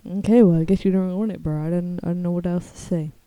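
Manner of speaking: talking around a retainer; wearing a retainer. Real, not acted. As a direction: speak with retainers in your mouth. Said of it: "I have my retainers in".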